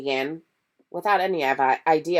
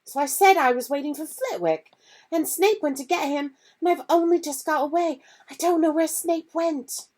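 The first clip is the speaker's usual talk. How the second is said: put-on much higher, anxious girl's voice; worried young girl reporting; upset Hermione; 13 semitones higher, 4 dB louder than usual. Hermione telling Harry what happened, high and anxious.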